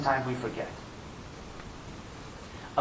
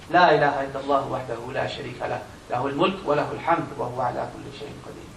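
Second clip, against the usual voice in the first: rapid dhikr recitation; 2 semitones lower, much faster than usual. Acted. Preacher recites the dua for the congregation, rapid. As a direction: rattle off the remembrance.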